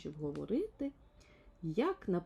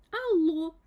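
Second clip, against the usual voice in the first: loud, higher hello into the phone; calling hello; 10 semitones higher, 10 dB louder than usual. Acted. Little man answers the ringing phone, loud and high. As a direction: grab the receiver and call out.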